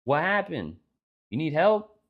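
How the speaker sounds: high, squeaky surprised little voice; a small creature finding someone stuck; mouse voice. Acted. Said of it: "he's like".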